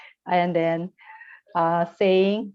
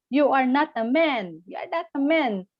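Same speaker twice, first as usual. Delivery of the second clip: retold shout; 4 semitones higher than usual. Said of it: "he shouted at his husband".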